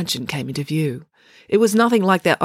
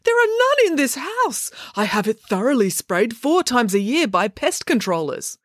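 exclaiming fussy dad; 7 semitones higher than usual. Acted. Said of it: "he exclaimed".

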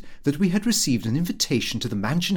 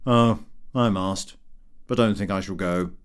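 vulgar clerk; 5 semitones lower than usual. Acted. Vulgar clerk Spotch quoted.

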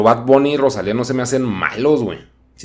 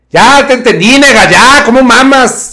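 mock annoyed voice; 12 semitones higher, 12 dB louder than usual. Mocking an impatient viewer.

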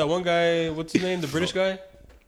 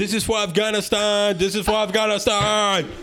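raised, declaimed mock battle cry; imitated viral video; 4 semitones higher than usual. Reminding friends of the video that blew up, mock declaiming. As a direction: declaim it higher, like quoting a viral clip. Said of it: "The guy that made that video".

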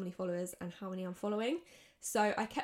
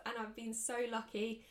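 burping; 4 dB quieter than usual. Real, not acted. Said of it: "Sorry, I'm burping".

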